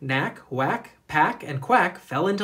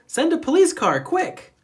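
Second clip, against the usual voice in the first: high, loud urgent shout; urgent yell; 12 semitones higher, 5 dB louder than usual. A narrator's reading. Michael shouting to Clancy for help, high and loud. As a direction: demand it right now. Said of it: "yelled Michael".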